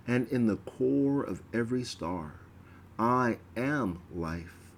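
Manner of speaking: measured, reverent priestly oration; solemn invocation. Acted. Priest praying before the veil, solemn and reverent. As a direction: address the hidden god with awe.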